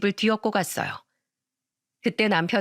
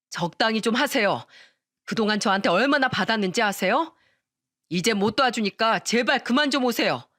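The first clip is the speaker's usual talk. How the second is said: fed-up husband shouting. Acted. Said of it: "진절머리가 난다는 듯 ... 소리쳤어요".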